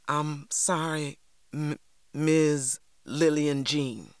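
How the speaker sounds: slow, trembling forced apology; tearful, trembling. Acted. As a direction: hold back tears, lips shaking. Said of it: "my lips trembled".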